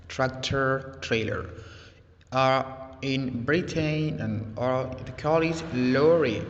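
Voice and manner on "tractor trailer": "Tractor trailer" with American r sounds; American accent. Shown as a demonstration. Teacher repeating "Tractor trailer" in an American accent. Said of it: "This is how it is called and pronounced in America".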